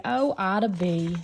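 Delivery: slow, disapproving mother's sigh of a name; frowning mother. A narrator's reading. Mother frowning at her daughter's questions, slow and disapproving. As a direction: drag the name out like a weary mom. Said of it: "Then she'd frown at me and say".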